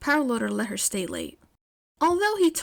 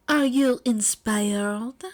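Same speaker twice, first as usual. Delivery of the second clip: slow teasing question; 3 dB louder, much slower than usual. Acted. Aoyama leans over her shoulder.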